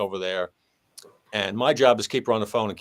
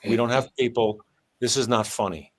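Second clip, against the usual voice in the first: stern appeal. Retold or imitated. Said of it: "gave an appeal to the public".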